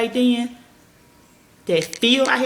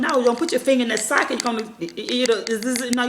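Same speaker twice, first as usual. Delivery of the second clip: put-on parent warning child; 4 semitones higher than usual. Shown as a demonstration. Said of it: "whip them".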